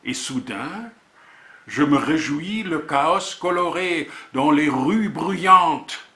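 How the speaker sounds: measured poetry reading with deliberate pauses; poem recitation. Acted. Poet presenting a volume of words and images, reciting. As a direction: recite in short, separated phrases, letting titles stand alone.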